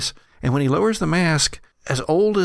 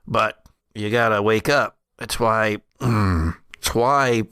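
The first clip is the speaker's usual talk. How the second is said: put-on old brother, urgent and regretful; 3 semitones lower than usual. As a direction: lower old man's voice, halting.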